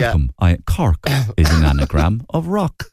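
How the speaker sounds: put-on measured Cork-accented welcome; John Creedon. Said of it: "you start off with John Creedon".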